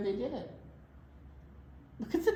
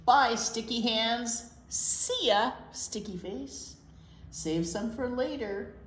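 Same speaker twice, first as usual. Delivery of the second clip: bouncy sing-song storybook reading; reading to children; 3 semitones higher than usual. Acted. Librarian reading pancake rhymes to kids, sing-song. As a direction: read the rhyme aloud to little kids. Reads rhyming picture book aloud.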